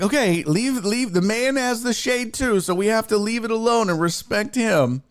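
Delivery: put-on high, prim old lady scolding; grandma voice. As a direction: mimic a fussy grandma hushing the kid. Grandma voiced telling kid off.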